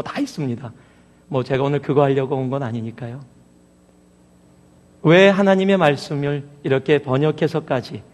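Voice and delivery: normal talking voice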